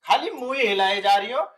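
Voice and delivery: loud, exasperated demand for an answer; loud exasperation. Acted. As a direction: raise your voice in baffled frustration. Son exasperated at seemingly silent women.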